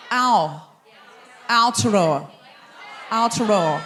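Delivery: Aotearoa tried out carefully, falling at the end; careful pronunciation attempt. Shown as a demonstration. Comedian practising a Māori place name for the audience, careful attempt. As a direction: sound out Aotearoa, low and deliberate. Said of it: "Am I saying that correctly?".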